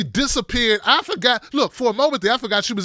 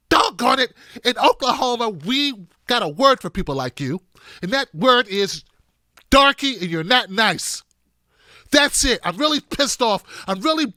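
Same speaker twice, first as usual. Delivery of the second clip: folksy indignation; 2 semitones higher than usual. Acted. Host imitating an Oklahoman scolding him, mock-indignant. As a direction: play a hammed-up, wholesome fit of temper.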